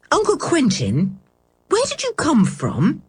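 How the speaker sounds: a hint of a curious lad; curious boy. A narrator's reading. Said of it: "who was eaten up with curiosity".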